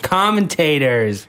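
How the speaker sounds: slow South African "Commentators"; South African accent. Retold or imitated. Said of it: "That's a very South African accent".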